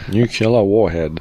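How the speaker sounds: "nuclear" slowly as nuke-yuh-ler; mispronounced nuclear. Real, not acted. Co-host defying a plea to stop, "nuclear" slowly as nuke-yuh-ler. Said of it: "Stop saying nuclear".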